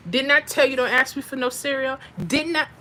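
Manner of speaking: bossy mock scolding at the counter; playing a part. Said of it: "I'm gonna have to play the part".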